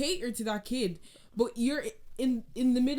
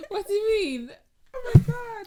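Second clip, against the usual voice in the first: much higher, loud laughing squeal; 12 semitones higher, 9 dB louder than usual. Real, not acted. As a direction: shriek with laughter at the tease. Friend teasing, she cracks up.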